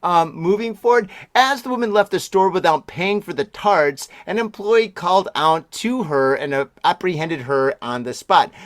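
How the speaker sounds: brisk newsreader delivery; news read. Acted. Reading the news story to the listeners as an anchor.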